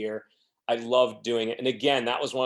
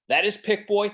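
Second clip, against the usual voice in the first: much higher and louder, putting her in her place; in her face; 9 semitones higher, 4 dB louder than usual. Retold or imitated. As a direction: defend him right in her face. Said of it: "he got, like, right in her face".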